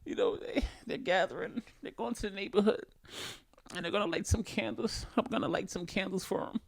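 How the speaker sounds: lightly voiced girlfriend planning a vigil; mock earnest girlfriend. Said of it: "and then she goes".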